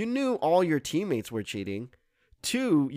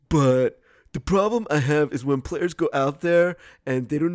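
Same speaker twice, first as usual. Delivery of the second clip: dumb voice; 3 semitones lower than usual. Retold or imitated. Reading the player's quote in a dumb voice. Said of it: "I'm using this dumb voice".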